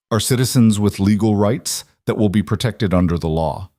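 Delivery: even, businesslike delivery; neutral, professional. Acted. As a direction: state it like an official reply. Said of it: "Garrett's voice remained neutral, professional".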